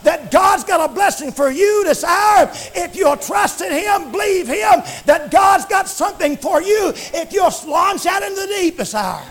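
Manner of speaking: chanted revival preaching over the organ; preaching at full force. Real, not acted. Preacher rallying the church, fervent chant. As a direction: preach it out, rhythmic and driving.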